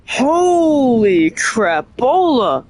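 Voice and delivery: drawn-out slow amazed exclaim. Real, not acted. Reacting to boss lore, slow amazed. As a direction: stretch it out in awe.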